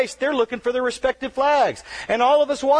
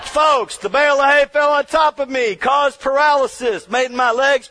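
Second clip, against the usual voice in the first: louder, punching the words out; loud emphatic; 4 semitones higher, 5 dB louder than usual. Real, not acted. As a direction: hit the audience with it.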